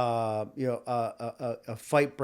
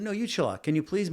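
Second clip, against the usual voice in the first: sharp, raised retort fired back at him; telling the flirting stranger to back off, heated; angry retort; 6 semitones higher than usual. Retold or imitated. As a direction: snap back at the guy, pitch up. Acted bar quarrel, retold.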